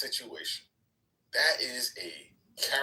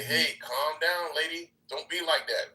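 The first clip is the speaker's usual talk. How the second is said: calming a woman down; 2 semitones higher, slower than usual. Retold or imitated. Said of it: "a staunch woman advocate to say".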